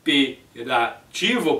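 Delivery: HIPERATIVO slowly split into syllables; slow teacher's syllable-by-syllable breakdown of "hiperativo". Shown as a demonstration. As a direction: say "hiperativo" in separate chunks, hi-pe-ra-tivo. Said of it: "vai ficar dessa forma".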